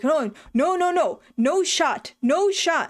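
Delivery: high, drawn-out mock refusal; imitated alarm. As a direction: act out a panicked owner pleading. Imitates alarmed dog owner refusing.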